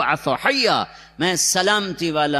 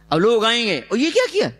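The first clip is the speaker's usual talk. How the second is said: shocked high accusation of the crowd; accusing; 8 semitones higher, 3 dB louder, faster than usual. Retold or imitated. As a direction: mimic the crowd's outraged question. People accusing Maryam. (حیرت بھرا الزام)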